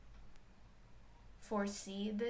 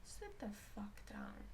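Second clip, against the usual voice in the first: slow venomous whisper; harsh whisper; 11 dB quieter, slower than usual. Retold or imitated. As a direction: whisper it like a threat, slowly. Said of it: "it would be like".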